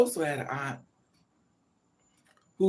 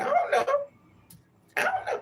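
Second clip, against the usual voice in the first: mock denial. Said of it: "I said".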